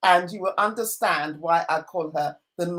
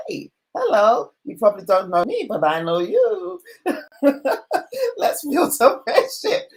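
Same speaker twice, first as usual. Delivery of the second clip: excited message; 6 semitones higher, 5 dB louder than usual. Retold or imitated. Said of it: "contacted her, said".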